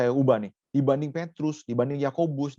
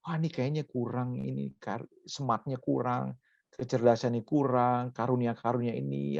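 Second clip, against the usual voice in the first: soft, imitated worried mumbling; mild parental fretting; 4 dB quieter than usual. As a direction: fret quietly over a child's shortcomings. Acts parent fretting over child. (gumaman orang tua yang pura-pura cemas)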